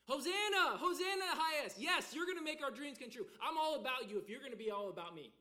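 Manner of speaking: cheering crowd. Retold or imitated. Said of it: "they're gonna champion".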